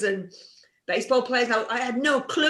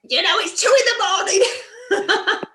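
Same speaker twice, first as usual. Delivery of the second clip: sleepy voice from home; 10 semitones higher, 4 dB louder than usual. Retold or imitated. Family answering late-night call.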